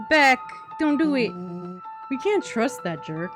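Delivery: urgent plea. Acted. Player pleads with Beck.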